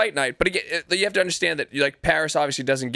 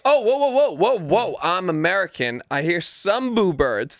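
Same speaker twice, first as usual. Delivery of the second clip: mock startled fighter; 3 semitones higher than usual. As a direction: fake alarm, then a smug slow tail. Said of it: "and then was like".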